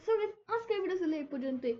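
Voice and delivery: loud, emphatic outro to viewers; loud sign-off. Real, not acted. Gamer asks viewers to like and subscribe, loud sign-off. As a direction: project the goodbye with big energy.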